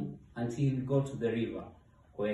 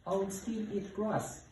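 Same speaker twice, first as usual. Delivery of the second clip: high, pleading little hippo voice; eager high-voiced plea; hopeful begging hippo; 9 semitones higher than usual. A narrator's reading. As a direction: bargain hopefully, pitched way up. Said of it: "begged Hippo hopefully".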